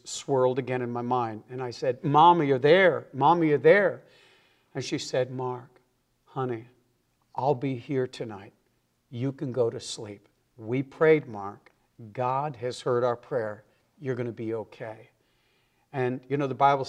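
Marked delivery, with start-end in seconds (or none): 2.0-4.0 anxious, louder call into the dark. Retold or imitated. Frightened son calling to his mother in the dark room, raised. 5.3-15.1 soft, hushed comfort; reassuring mother. Retold or imitated. Mother in the dark bedroom softly reassuring her scared son.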